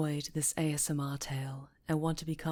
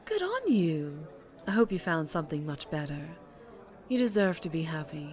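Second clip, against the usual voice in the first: a lady crime boss, lightly voiced, silky and sure; smooth mob boss. Mob boss bidding her old employee goodbye, silky and sure. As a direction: purr it like she owns the room.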